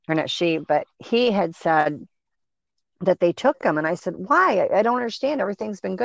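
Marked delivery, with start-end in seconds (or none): 4.1-6.0 higher, puzzled questioning; mild disbelief, asking why; retold confusion.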